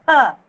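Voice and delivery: Kha with a strong puff of breath on the k; aspirated kha. Shown as a demonstration. Teacher demonstrating the aspirated Kha to children. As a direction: push air out hard on Kha. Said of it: "You have to stress and pronounce".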